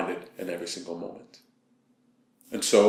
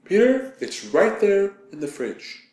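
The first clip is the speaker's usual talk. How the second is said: much higher yell, then slow and insistent; girlfriend yelling back; 11 semitones higher, 3 dB louder, slower than usual. Retold or imitated. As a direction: yell back at him, then spell it out slowly. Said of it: "she yells back at me".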